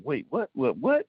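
retold bewildered double take; imitating confusion. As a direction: repeat it like someone caught unawares. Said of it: "they'll be looking like".

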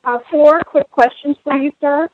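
normal talking voice

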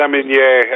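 Lemonnier said LEM-in-yay; Lemonnier as they said it at Auburn, LEM-in-yay; reported pronunciation. Shown as a demonstration. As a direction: stress the first syllable of Lemonnier, end on AY. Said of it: "they pronounced it".

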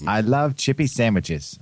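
put-on slow, tentative stab at a New Zealand accent; attempted Kiwi accent. Host reading a listener's email as asked, attempted Kiwi accent. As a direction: try a Kiwi accent, not quite managing it. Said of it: "read it out in a Kiwi accent".

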